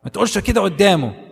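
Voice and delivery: high, very fast put-on scold; hammed-up hurried scold in Arabic; fussy scolding. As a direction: rattle it off like a fussing aunt. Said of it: "people say".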